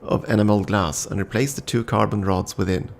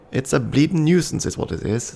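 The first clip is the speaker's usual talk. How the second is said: attempted Yorkshire accent, higher and grumbling; 5 semitones higher than usual. A narrator's reading. Artificer complaining about her machine, rough attempt at Yorkshire accent. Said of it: "in a thick Yorkshire accent".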